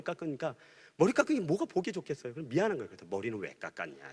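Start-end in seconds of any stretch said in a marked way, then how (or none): 3.1-4.1 much softer and lower, tender gruff father; quietly, like a stern father who has gone soft; gentle father. Retold or imitated. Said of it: "이런 거예요". (아주 낮고 부드러운 아버지 목소리로)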